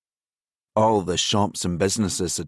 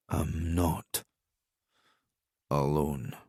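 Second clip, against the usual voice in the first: stammered; 3 semitones lower, 7 dB quieter, slower than usual. Acted. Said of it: "Grant stammered, half delirious".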